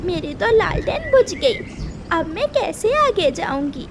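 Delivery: a frightened mother bird in the dark; anxious mother bird voice; mother bird, worried. Acted.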